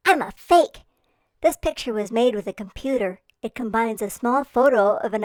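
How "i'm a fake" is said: higher, louder, disappointed little seal; a tiny creature let down, pitched up; baby seal in the egg giving up, high and louder. Acted. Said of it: "the little guy inside the egg says".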